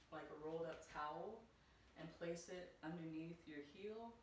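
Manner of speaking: slightly winded while explaining; out of breath. Real, not acted. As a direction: talk while catching your breath. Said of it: "Sorry, I'm kinda catching my breath".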